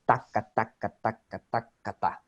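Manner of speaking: "taka, taka" in equal rapid beats, no rises or falls; machine-like even "taka taka"; even monotone rhythm. Shown as a demonstration. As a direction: tap out "taka taka ta" all on one level. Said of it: "It's always the same".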